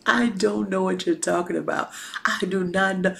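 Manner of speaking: mock-earnest, level denial; deadpan sworn denial, lightly acted; so serious. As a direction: deny it with a straight, serious delivery. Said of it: "Like, he was so serious".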